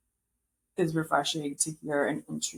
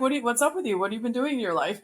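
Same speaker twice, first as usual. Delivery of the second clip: higher, blunt mock interviewer question; lightly imitating a blunt host, pitched up; 5 semitones higher, much faster than usual. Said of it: "but she's so blunt".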